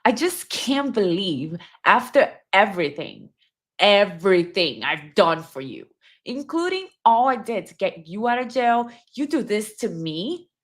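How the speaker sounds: hurt, accusing letter read with feeling; a hint of wounded accusation; acting out the bitter ex. Shown as a demonstration. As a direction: play the betrayed partner. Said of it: "let me do the tone".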